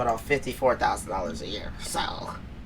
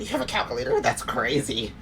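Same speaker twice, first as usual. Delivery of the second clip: ditz it up, mocking her. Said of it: "She's talking about".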